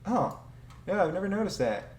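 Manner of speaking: high, bright surprise, imitating a friend; surprised friend. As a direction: play the friend caught off guard. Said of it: "a friend of mine was like".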